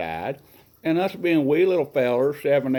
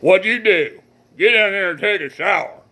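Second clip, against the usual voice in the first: loud, higher gruff father; stern dad; 6 semitones higher, 6 dB louder than usual. Retold or imitated. Dad to son who soiled himself, loud stern order. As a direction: bark it at the boy coming in. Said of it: "all I hear my daddy said was".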